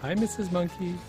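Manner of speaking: ordinary talk, nothing marked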